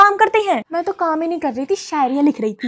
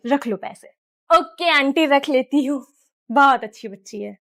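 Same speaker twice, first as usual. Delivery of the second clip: put-on aunty and child voices; 3 semitones lower, 4 dB quieter than usual. One actor voices aunty and child.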